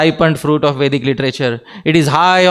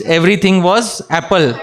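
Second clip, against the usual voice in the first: laughing; 3 semitones higher than usual. Real, not acted. Joking about apple names.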